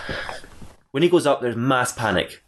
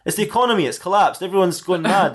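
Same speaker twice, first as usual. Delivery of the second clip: April; 5 semitones higher than usual. Acted. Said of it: "She goes".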